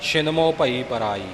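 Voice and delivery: ਮੋਹ said as mo, not mɛ or məh; correct ਮੋਹ. Shown as a demonstration. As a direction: stress ਮੋਹ as a clean long mo. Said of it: "ਇੱਥੇ ਮੋਹ ਸ਼ੁੱਧ ਹੈ".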